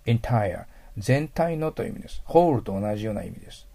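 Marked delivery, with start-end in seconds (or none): 0.1-0.6 entire starting with an "i" vowel, "intaia"; i sound at start. Shown as a demonstration. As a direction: say entire as "in-tire", not "en". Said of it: "いの発音になることが多いですね".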